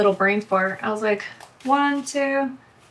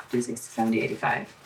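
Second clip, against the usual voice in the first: counting the bills again in a soft murmur, trailing into a whisper; just mouth the numbers to yourself while checking the count; under-breath recount; 12 semitones lower, 7 dB quieter, much faster than usual. Real, not acted. Double-checking her cash stuffing, she recounts it to herself in a low murmur.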